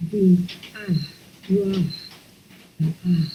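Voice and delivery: ah from ruah; second syllable ah. Shown as a demonstration. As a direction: open ah breathed out. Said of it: "let's try that second syllable".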